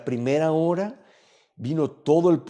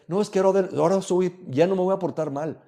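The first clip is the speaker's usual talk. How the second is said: higher, louder mock protest; mock promise; 6 semitones higher, 4 dB louder than usual. The preacher mocks someone promising to behave from now on, hammed-up protest. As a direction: parody a sinner swearing to be good now.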